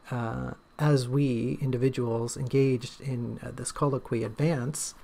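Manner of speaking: slow, overly refined wording; a hint of snooty refinement; pompous highbrow speech. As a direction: put on lofty vocabulary, slowly. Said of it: "That, that was difficult".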